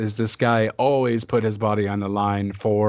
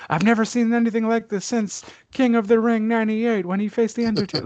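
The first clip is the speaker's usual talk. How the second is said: high, excited announcer call; commentator voice; 12 semitones higher, 3 dB louder, faster than usual. Retold or imitated. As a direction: shout it like a wrestling commentator. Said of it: "what else are you gonna say".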